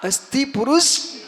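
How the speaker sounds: slow, forceful lead for a crowd to repeat; loud call. Shown as a demonstration. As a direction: call it out loudly, stretching the last word. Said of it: "और जोर से बोलो". (जोर से बुलवाते हुए)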